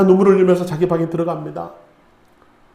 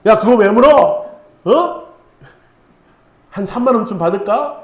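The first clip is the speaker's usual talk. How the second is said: 짜증난 아빠; 4 dB louder than usual. Retold or imitated. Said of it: "피곤하고 짜증난 아빠가".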